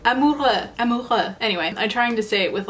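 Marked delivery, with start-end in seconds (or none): 0.0-0.7 higher-pitched try at French "Amoureux"; attempted French accent. Shown as a demonstration. Retrying a collection name after a slip, attempted French accent. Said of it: "like, a decent French accent". 0.8-1.3 "Amoureux" with a throaty French R; attempted French accent. Shown as a demonstration. Trying to do the name justice, attempted French accent. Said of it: "like, a decent French accent".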